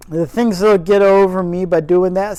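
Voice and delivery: loud gruff Yorkshire grumble; faux Yorkshire accent. Gardener pretending not to be pleased, loud faux Yorkshire. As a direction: grouse at the bird in faux Yorkshire. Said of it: "my terrible faux Yorkshire accent".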